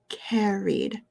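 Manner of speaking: "carried" with a long, clear ee before the d. Shown as a demonstration. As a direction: stretch "carried" as CARE-eed. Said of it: "we're going to say carried".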